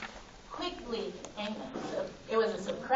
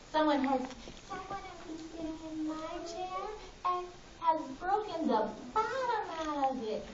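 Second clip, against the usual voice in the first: put-on small, soft Baby Bear voice; wee little voice; 4 semitones higher, 4 dB quieter than usual. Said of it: "in his wee little voice".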